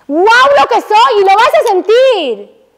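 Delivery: slow, high and proud; proud exclamation. Acted. Teacher to women, showing proud self-worth. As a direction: say it as if you feel your own strength.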